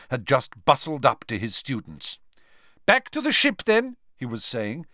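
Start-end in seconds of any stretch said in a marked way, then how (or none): 2.8-4.0 high voiced headmaster, loud; a lightly voiced fussing headmaster; Karkaroff voice. A narrator's reading.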